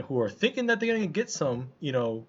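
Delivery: usual speaking voice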